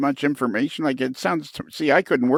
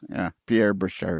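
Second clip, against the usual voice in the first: put-on French accent; 3 semitones lower than usual. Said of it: "French lisp".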